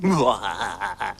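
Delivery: low sneaky snigger; mischievous little laugh; sneaky chuckle. Acted. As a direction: chuckle like a playful thief. Snock sniggers while creeping.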